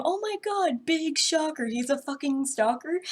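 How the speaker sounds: big shocker, dripping with sarcasm; sarcastic. Real, not acted. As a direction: fake amazement at the obvious twist. Mock surprise at obvious twist.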